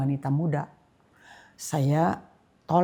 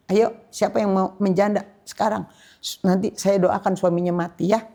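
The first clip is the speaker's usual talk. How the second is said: louder, daring the congregation; preaching challenge; 3 semitones higher, 4 dB louder than usual. Retold or imitated. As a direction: throw the challenge at the room. Challenging the young women while preaching.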